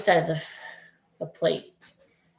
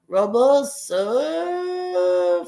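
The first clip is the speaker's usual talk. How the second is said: anxious play call; 6 semitones higher, much slower than usual. Real, not acted. Live call as blooper goes up.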